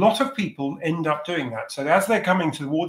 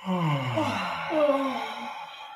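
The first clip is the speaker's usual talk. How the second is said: yawning sigh; 7 semitones higher, 5 dB quieter than usual. Shown as a demonstration. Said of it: "take in a lovely big yawn".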